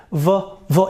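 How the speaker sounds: V with vocal-cord vibration; voiced V. Shown as a demonstration. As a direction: demonstrate a short buzzing V, twice. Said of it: "you will feel vibration".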